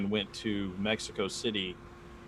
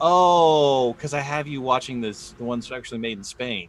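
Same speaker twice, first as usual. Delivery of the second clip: teacher's reply; 2 semitones higher, 5 dB louder than usual. Retold or imitated. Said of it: "And she went".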